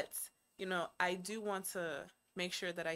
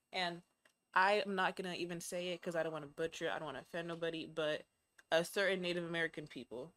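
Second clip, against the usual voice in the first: teacher voice; 4 dB quieter than usual. Pretend. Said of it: "have my teacher voice on".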